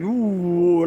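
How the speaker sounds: imitated whoosh of windy trees; drawn-out "ooh" for swaying trees; wind noise. Pigeon fancier shows how the wind bent the trees, imitated whoosh. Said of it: "the trees are going like".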